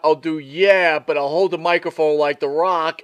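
lightly voiced wrestler on the mic; L A Knight. Host imagines the wrestler planning his act, light imitation. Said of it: "It's a pretty good imitation".

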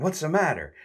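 high, mock worried question; a hint of fussing concern. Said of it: "they look at him all concerned".

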